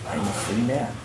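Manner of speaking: softly, letting it sink in; quiet, awed words to oneself; hushed realization. Retold or imitated. Ex-prisoner realizing he is out, hushed. Realizing freedom in the store doorway.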